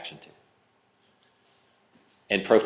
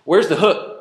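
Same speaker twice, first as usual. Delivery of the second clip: exasperated inner voice; 9 semitones higher, 5 dB louder than usual. Retold or imitated. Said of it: "I'm going".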